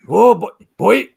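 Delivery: loud, high attempt at a Welsh accent; hammed-up Welsh celebrity voice; Hopkins. Telling friends about a pub row, imitated Welsh accent. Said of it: "So I tried Hopkins there".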